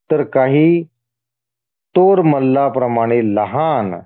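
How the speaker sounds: deliberate list, a pause after each item; measured scripture reading. Acted. God listing his many forms to the devotee, measured reading. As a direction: read it out phrase by phrase.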